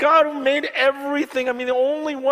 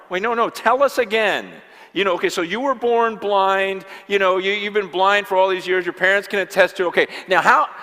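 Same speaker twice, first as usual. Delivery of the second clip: mock interrogation; 3 semitones lower, 4 dB louder than usual. Authorities grilling the healed man.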